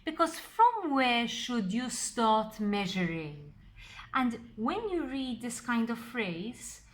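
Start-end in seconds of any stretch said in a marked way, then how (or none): 0.4-3.5 "from" hit firmly at the front; stress on from. Shown as a demonstration. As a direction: lean on "from" as the key word. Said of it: "I'm putting emphasis on the word from".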